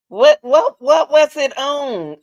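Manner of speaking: loud, high, urgent demand; frantic questioning. Real, not acted. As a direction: fire out the repeats loudly, then stretch the question. Frantically asking where news was posted.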